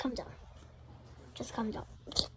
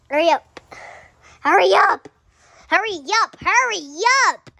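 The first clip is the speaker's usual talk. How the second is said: loud repeated hurry up; urging loudly; 6 dB louder than usual. Real, not acted. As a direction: push them to hurry.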